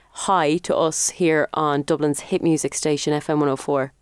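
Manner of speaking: low-pitched station ident read. Shown as a demonstration. Host feeds caller the station line, station ident.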